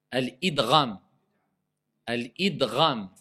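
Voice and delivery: "Al-idgham" set out word by word for a class; careful model pronunciation. Shown as a demonstration. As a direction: articulate "Al-idgham" with a distinct d and throaty gh. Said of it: "Apprenez à prononcer bien".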